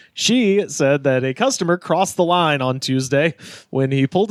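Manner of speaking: measured news-reading delivery. Real, not acted. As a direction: read the story out like a radio newsreader. Reads a news story.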